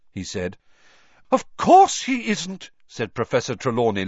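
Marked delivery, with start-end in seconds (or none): 1.3-2.7 much higher, loud, theatrical seer; excited seer voice. A narrator's reading. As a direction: gush it like a dramatic mystic. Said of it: "looking thoroughly excited".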